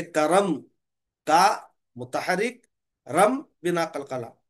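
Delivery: करम split, का मुतहरिक then रम बिना कलकला, drawn out slowly; slow spelling demo. Shown as a demonstration. Teacher showing how करम is spelled in the lesson. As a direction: recite each part slowly so students can copy it. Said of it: "इस तरह पढ़ेंगे".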